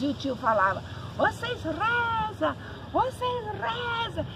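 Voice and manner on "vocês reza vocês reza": high, slow, drawn-out urging; urgent plea. Retold or imitated. Uncle telling the boys to pray, high slow drawn-out urging. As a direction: beg them to pray, stretching every word up high.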